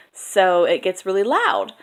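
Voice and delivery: "loud" punched up and stretched; emphasis by volume. Shown as a demonstration. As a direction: swell slowly onto "loud" for emphasis. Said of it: "they emphasize words with volume".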